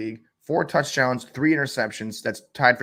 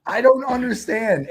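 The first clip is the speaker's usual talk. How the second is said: much higher and louder, slow; baffled exasperation; 10 semitones higher, 5 dB louder than usual. Real, not acted. Host baffled by Russell Wilson, slow and much higher. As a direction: drag it out in disbelief. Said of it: "it irks me up a little bit".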